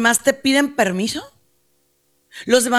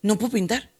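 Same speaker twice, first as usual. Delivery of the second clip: softer, a touch defeated; lightly voiced grieving son, softer; 6 dB quieter than usual. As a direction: murmur it like a son who gave up. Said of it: "y él dice".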